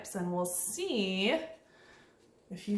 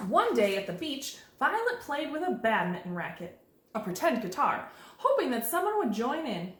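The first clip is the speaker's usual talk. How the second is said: expressive picture-book narration; reading to children. A narrator's reading. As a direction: read it aloud with lilting pitch swings.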